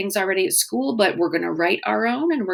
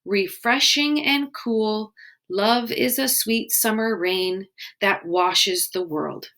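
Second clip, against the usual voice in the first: slow, gentle haiku reading; poem reading; slower than usual. Shown as a demonstration. Teacher reading a haiku to the class, slowly. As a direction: read the haiku slowly, savouring it. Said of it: "let's start with this first haiku".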